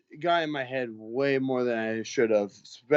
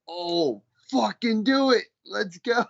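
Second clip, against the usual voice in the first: eager challenge; 10 semitones higher, slower than usual. Retold or imitated. Bouncer accepts fight challenge eagerly.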